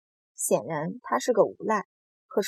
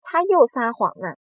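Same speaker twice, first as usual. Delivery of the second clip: raised, louder storybook cry; shrieked accusation; 4 semitones higher, 7 dB louder than usual. A narrator's reading. Earthworm accusing the centipede of lying, mildly shrieked. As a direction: accuse in a lifted voice. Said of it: "蚯蚓尖叫着".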